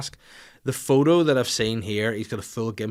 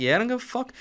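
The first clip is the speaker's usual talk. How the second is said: high-pitched mimicked child's cheek; defiant kids; 13 semitones higher, faster than usual. His daughters answering his telling-off, mock defiant. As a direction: imitate a kid not caring, pitched way up. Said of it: "And they're like".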